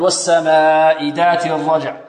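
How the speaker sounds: "ذات" mispronounced with a plain d, as "daat"; chanted verse, hard d instead of dh in "ذات"; wrong ذال. Shown as a demonstration. Teacher warning students what not to say, mispronounced demo. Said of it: "لا نقول".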